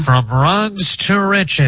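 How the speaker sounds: high, slow vintage radio announcer; old-timey radio voice. Shown as a demonstration. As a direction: stretch it out like a 1940s broadcaster. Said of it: "Old-timey radio voice".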